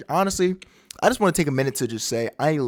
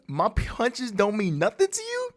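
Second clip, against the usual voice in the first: lightly voiced cocky challenge, pitched up; Luffy; 5 semitones higher than usual. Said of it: "My boy Luffy's like".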